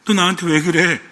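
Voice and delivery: mildly hammed-up exasperated complaint; acted exasperation. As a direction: act fed up, pushing the first question out. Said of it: "우리 보통 언제 그러면".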